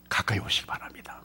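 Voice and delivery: hushed invitation to draw near; whisper. Acted. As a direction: lean in and breathe it. Preacher's hushed invitation to congregation.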